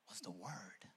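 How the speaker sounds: low, soft landing on the answer; hushed, deep statement; quiet reveal. Real, not acted. Quiet answer before shouted repeat.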